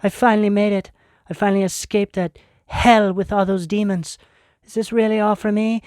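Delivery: overwhelmed relief. Retold or imitated. Viewer reaching the other side, breathless and gushing. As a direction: play the viewer stunned that they finally made it. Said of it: "You're like".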